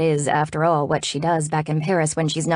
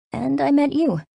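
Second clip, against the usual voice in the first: higher-pitched, affectionate addition; heartfelt; 9 semitones higher than usual. A narrator's reading. Telling a new friend she matters, heartfelt. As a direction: lift the voice with fond happiness.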